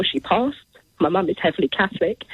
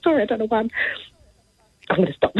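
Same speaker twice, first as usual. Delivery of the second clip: getting emotional; 6 semitones higher, much faster than usual. Real, not acted. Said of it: "I'm getting so emotional".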